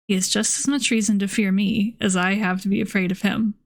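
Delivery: measured audiobook-style reading, even pitch; story narration. A narrator's reading. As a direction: read the old novel aloud evenly. Reads a novel aloud.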